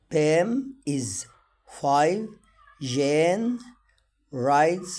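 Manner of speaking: very slow, word by word, each word stressed; slow reading for learners. Shown as a demonstration. Teacher reads sentences slowly for students. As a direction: read it out slowly for beginners to follow. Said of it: "للتدريب".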